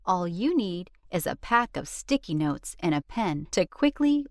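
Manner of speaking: a quick, friendly ad read. Acted. Narrator pitching the book to parents as an ad read. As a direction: sell the book to parents briskly.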